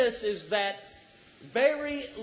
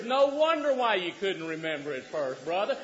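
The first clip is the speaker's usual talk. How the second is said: ordinary talk, nothing marked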